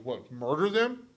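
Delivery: exaggerated incredulous question; mock incredulous. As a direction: overdo the disbelief, stretching the words. Mock incredulous reply in retold argument.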